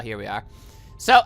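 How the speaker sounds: normal talking voice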